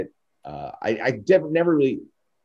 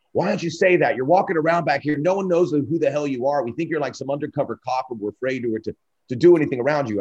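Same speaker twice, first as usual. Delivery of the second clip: mock scolding; 4 semitones higher, 4 dB louder than usual. Wrestler scolding new guy.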